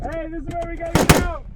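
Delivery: fast, loud callout to the squad; urgent shout. Real, not acted. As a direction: yell it over gunfire. Calling teammates to escape.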